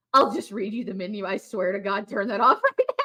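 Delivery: mock stern husband; bossy scolding at the restaurant; husband mimicking. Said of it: "And Kevin goes".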